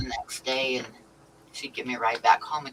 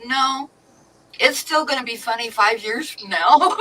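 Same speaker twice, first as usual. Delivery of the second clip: high, laughing, louder comeback; laughing retort; 8 semitones higher, 6 dB louder than usual. Retold or imitated. Teller tells the sister it stays funny, laughing. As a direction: say it through a laugh. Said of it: "and I said".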